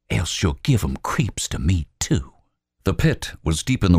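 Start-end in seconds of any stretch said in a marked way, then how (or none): 0.1-2.3 a touch of irritation; lightly voiced Albert. Albert to Robert Lee, mildly irritated. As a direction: grumble it back at him.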